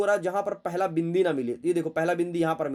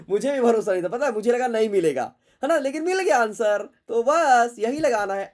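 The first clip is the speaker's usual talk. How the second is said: higher, louder burst of delight; thrilled, higher and louder; excited; 6 semitones higher, 7 dB louder than usual. Real, not acted. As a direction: celebrate finding the answer. Delighted the answer was found.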